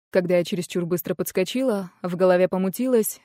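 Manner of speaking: plain reading voice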